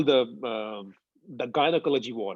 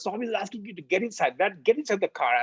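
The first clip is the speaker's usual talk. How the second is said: higher-pitched, insistent retold urging; pressing, raised-pitch nudge; 6 semitones higher than usual. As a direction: imitate a friend pressing someone to hurry. Friend urges him into car.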